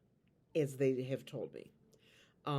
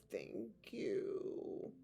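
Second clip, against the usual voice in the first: whisper; 5 semitones higher, 8 dB quieter than usual. Acted. Answering as the Spirit.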